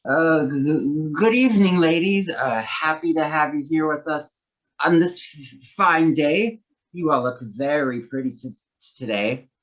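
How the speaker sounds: nervous stuttering on first sounds; slight stutter. Acted. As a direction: stumble shyly over the words. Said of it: "has a slight stutter".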